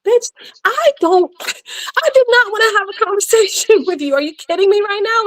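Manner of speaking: hammed-up disbelief at a chatty clerk; exasperated retort. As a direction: play her own irritated self in a squeaky put-on voice. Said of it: "I'm like".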